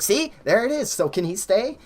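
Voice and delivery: high, loud point-proving; retold heated argument. Employee challenging manager to keep cook, high retold insistence.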